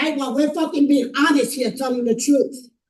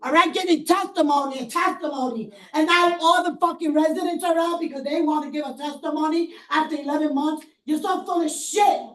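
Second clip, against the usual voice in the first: real hysterical anger; 3 semitones higher than usual. Real, not acted. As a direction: hurl the accusations at the board. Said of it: "I'm hysterical right now".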